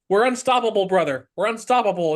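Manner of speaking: mock hype. Imitating Sketch hyping himself up.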